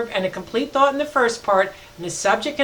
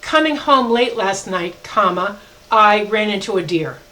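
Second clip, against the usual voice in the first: slow, with "comma" said aloud; dictating an example sentence; slow dictation; 4 dB louder than usual. Shown as a demonstration. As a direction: read the sentence and name the comma. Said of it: "another example would be".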